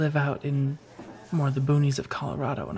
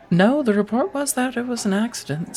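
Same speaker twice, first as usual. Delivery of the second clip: laughing; 8 semitones higher than usual. Acted. Laughs while explaining the report.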